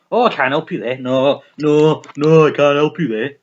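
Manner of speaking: a hint of a brush-off clinician; imitating the psychologist. Mocking her psychologist's useless answers, lightly voiced. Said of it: "He's like".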